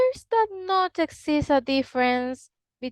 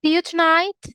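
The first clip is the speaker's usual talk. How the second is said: tonight with a standard British I sound, pitched up; BBC English; 7 semitones higher, 3 dB louder, faster than usual. Shown as a demonstration. Teacher comparing two accents, BBC English. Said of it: "compare the B B C English".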